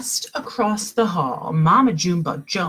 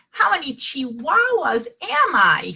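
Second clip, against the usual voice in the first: wondering aloud; 9 semitones higher, 5 dB louder than usual. A narrator's reading. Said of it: "he wondered out loud".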